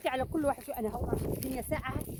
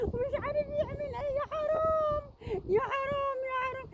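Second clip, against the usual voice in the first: mock pity; 10 semitones higher than usual. Mocking pity for the embarrassed man. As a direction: coo the pity as a tease.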